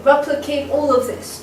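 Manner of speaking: "Replicate all of this" with beats on "Rep" and "all"; two falling three-beat groups in "Replicate all of this"; dactylic stress. Shown as a demonstration. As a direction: stress "Rep" and "all", letting the syllables after fall. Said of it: "two dactyls".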